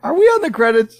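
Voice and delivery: eager quote. Retold or imitated. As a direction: ask it like a hopeful kid. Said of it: "And then you went".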